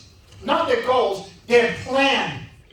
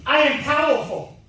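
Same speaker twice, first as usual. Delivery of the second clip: booming motivational speech; 3 semitones higher, 3 dB louder than usual. Shown as a demonstration. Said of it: "repeat after me".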